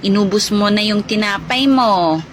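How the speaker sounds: loud, low, scolding mother voice; booming motherly reprimand. Acted. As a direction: lay down the law to the youngest. Mother scolding youngest child.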